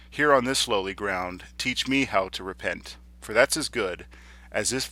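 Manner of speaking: earnest, measured sonnet reading; formal verse with pauses at line ends; poetry recitation. Acted. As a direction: recite it as a deliberate plea in verse. Recites the sestet.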